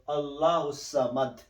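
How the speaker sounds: "Allahus Samad" linked by S, ending on D; joined, stopped ending. Shown as a demonstration. Teacher modelling the stop, "Allahus Samad" with no final vowel. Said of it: "So when you stop".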